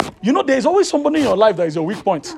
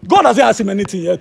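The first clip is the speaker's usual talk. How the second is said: louder emphatic preaching; preaching shout; 8 dB louder than usual. Real, not acted. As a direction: drive the point home loudly.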